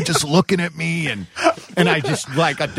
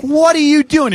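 high, louder startled question; alarmed question; 10 semitones higher, 5 dB louder than usual. Retold or imitated. To drunk Goop grabbing a tire iron, alarmed. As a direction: stop him in his tracks with alarm.

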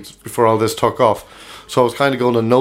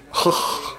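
Roy Keane noise; 7 dB quieter than usual. Acted. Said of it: "I can do a Roy Keane accent".

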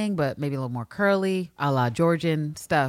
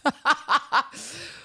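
high burst of laughter; laughing; 9 semitones higher than usual. Real, not acted. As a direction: laugh out at the petty line. Laughing at the diary.

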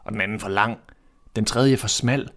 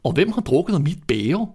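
higher, changed dwarf voice; a small dwarf asking, pitched up; dwarf's voice; 6 semitones higher than usual. A narrator's reading. Seventh dwarf asking about his cup, higher voice. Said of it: "sagde den syvende".

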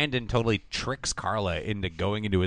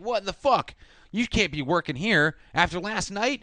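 higher mock indignant whine; mock outraged Brandon; 9 semitones higher than usual. Recapping the show, mocking Brandon's angry outburst. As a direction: ham up a spoiled outburst. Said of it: "he's like".

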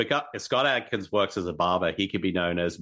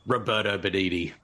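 lightly put-on Italian accent; name him in mock Italian accent; a hint of stage-Italian accent. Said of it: "can you do your Italian accent".

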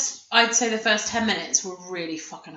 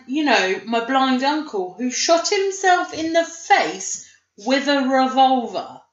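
slow, higher, mock-exasperated retelling; mock pissed off; 5 semitones higher, slower than usual. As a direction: spell it out slowly, imitating an annoyed reminder. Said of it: "She sounded really pissed off that he'd forgotten".

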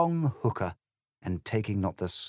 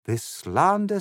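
pompous Corbyn voice; 11 semitones higher, 6 dB louder than usual. A narrator's reading. Corbyn replies.

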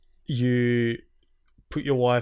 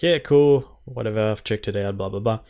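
dismissive; 5 dB louder than usual. Retold or imitated. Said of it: "Iron Mike's like".

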